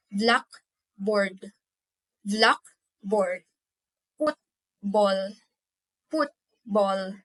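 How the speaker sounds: "blackboard" and "football" split, BLACK and FOOT stressed; first-part stress. Shown as a demonstration. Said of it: "the first part of the word".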